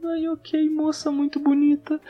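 high, thin, smitten little voice. Retold or imitated. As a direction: squeak it out, lovestruck. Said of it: "vou ficar falando fino o bagulho". (voz fininha e aguda)

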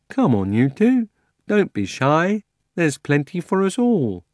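hearty talking horse, chewing; talking horse with a mouthful. Acted. Fledge speaks, chewing.

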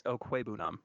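Okwuegbunam said with the G left silent; correcting, Okwuegbunam without any G sound. Shown as a demonstration. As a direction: say Okwuegbunam as oh-KWAY-boo-nam. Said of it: "You don't pronounce the G".

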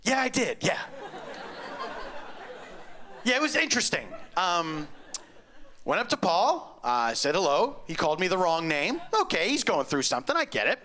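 lightly voiced bewildered funeral guest; imagined guest retelling. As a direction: gossip it to a friend, baffled. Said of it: "Then I imagined him relating this".

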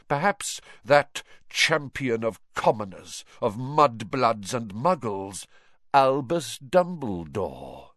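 cold accusation swelling into grandiose boasting; menacing dark lord. Acted. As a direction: build from hushed reproach to ringing pride. Villain's speech to his followers.

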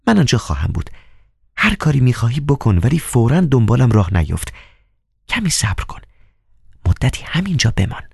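high, hushed female voice; a lightly voiced woman giving secret orders; Nisa's voice. (نیزا با صدای زیر زنانه، پنهانی و آهسته)

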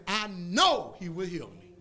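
slow, sure and firm on know; confident faith. Shown as a demonstration. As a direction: plant the word know like a fact. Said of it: "That's the difference between saying".

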